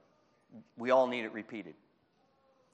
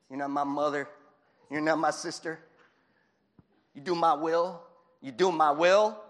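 rising insistent Jesus; 3 semitones higher, 7 dB louder than usual. Pretend. Jesus demands Mary do his will.

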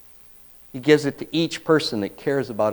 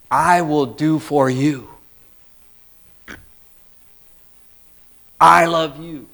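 tender vow; 4 semitones higher than usual. Retold or imitated. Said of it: "In God's way of covenanting in marriage".

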